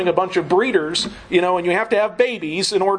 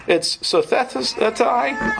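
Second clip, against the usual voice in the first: slow word with a slight lisp; lisping through the Greek word; 2 semitones higher, much slower than usual. Real, not acted. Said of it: "I'm having a lisp issue".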